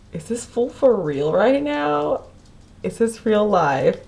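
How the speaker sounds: high, slow, stunned disbelief; can't believe what he just said; incredulous disbelief. Retold or imitated. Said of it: "And I'm just like".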